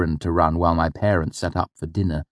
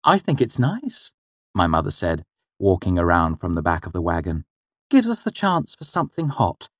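suggestive hint; 4 semitones higher than usual. Acted. Mother hinting to father.

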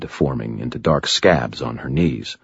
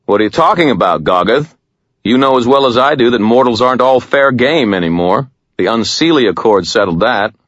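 a firmer, louder wizard's challenge; lightly voiced wizard; 7 semitones higher, 5 dB louder than usual. Harry challenges the troll in a lightly raised voice. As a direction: stand up to the troll.

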